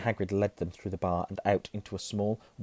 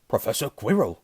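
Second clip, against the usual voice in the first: loud, lightly voiced Hagrid; 3 semitones higher, 7 dB louder than usual. A narrator's reading. Hagrid greets the professor, hailing him loudly. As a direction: hail a colleague heartily. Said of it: "said Hagrid".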